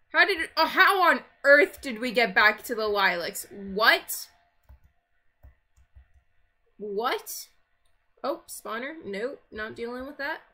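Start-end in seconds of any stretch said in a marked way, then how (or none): 0.1-7.5 surprised. Real, not acted. Lost in the lilacs.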